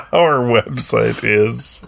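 slow, drawn-out mock announcer; hammed-up announcer. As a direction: stretch it like a showy host. Announcer-style read.

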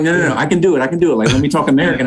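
eager Brit insisting. Retold or imitated. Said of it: "they're like".

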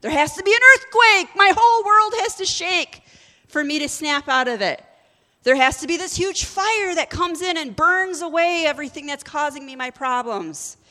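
loud, high, rising preacher's fervor; preacher mocks waiting for a big miracle, booming; preaching at full force. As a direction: build it big like an earthquake is coming. Preaching about big dramatic change.

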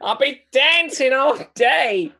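a hammed-up deep South drawl, slow and laughing; deep south accent. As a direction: play Rose with a goofy Southern accent, half laughing. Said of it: "more deep south, that one".

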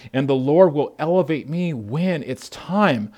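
slow, steady, settling reassurance; David calming his angry men; slow, sincere reply to his brothers; calm resolve. Retold or imitated. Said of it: "And David said to his men".

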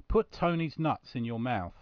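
slow, deliberate advert title; advert read. Pretend. Host reading the sponsor's advert to listeners, slow announcer delivery.

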